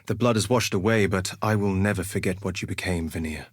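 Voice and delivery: grave, fading remembrance; sombre vow. Acted. Duelist sombre over dead enemy.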